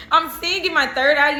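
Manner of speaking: laughing through the words; amused, laughing voice. Real, not acted. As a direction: giggle as you say it. Laughing at her own vision.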